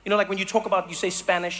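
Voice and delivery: ordinary talk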